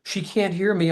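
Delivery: mock yell; retold yelling. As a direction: call out frustrated. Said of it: "I'm yelling".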